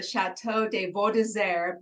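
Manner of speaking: best-effort French pronunciation; careful American go at French; attempted French accent. Shown as a demonstration. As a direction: say the château's name in an amateur French accent. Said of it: "that was my best, like, French accent".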